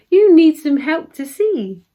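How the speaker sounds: high, loud, eager telling; keen storybook fairy; fairy exclaiming. A narrator's reading. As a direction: exclaim it, voice lifted. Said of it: "exclaimed the fairy".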